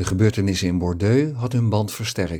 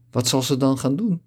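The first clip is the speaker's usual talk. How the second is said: a touch desperate, lightly voiced; almost desperate question; 5 semitones higher than usual. Kibbe asks what Anna will do now, mildly desperate. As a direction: ask with mild anxiety. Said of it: "vroeg Kibbe haast wanhopig".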